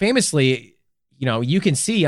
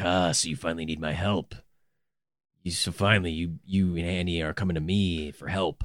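very low, gruff, gravelly growling tough-guy voice; 9 semitones lower, 9 dB quieter than usual. Imitating the customer service guy on the phone, in a gruff, gravelly voice. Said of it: "gruff guy with this gravelly, gross voice".

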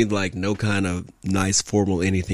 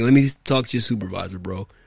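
usual speaking voice

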